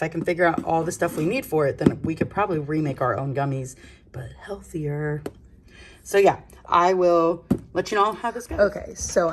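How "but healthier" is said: slow breathy whisper; whispered aside. Real, not acted. Hushed aside about gummies.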